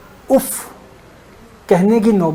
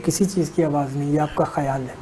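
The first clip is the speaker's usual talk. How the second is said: softer, patient loving reassurance; lovingly again; 4 semitones lower, 9 dB quieter than usual. Retold or imitated. Son patiently soothes his mother's worry, soft and tender. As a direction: hush her worry tenderly, quietly. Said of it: "بیٹے نے پھر پیار سے کہا".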